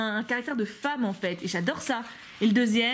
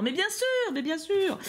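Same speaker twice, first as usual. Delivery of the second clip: sarcastic; 8 semitones higher, slower than usual. Real, not acted. Ironise sur Peter mis en avant.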